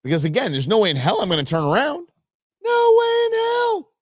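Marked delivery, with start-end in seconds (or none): 2.6-3.9 a much higher, louder, slow, drawn-out shout; defiant shout. Real, not acted. Man vowing to himself he won't turn back, defiant shout. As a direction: bellow the refusal like a war cry.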